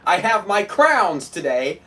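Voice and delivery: slow "crowns" for crayons, stretched OW; mock "crowns" slowly, with a rising end; mocking pronunciation. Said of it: "not crowns".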